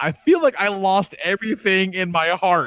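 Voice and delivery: put-on high, slow, weepy child's tearful crying. Retelling a child's reaction to a movie ending: imitating a child crying.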